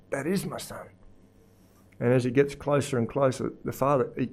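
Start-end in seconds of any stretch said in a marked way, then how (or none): 0.1-0.9 dawning recognition. Acted. Father recognises his son.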